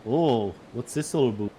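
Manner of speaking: mock Canadian, "about" as "a boot"; light parody of a Canadian; Canadian accent. Shown as a demonstration. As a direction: put on a joking Canadian accent. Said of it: "If I was doing Canadian".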